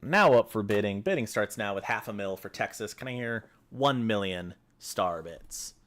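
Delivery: fast, rhythmic auction calling; auctioneer. Pretend. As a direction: rattle off bids like an auctioneer. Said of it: "Am I doing a good impression".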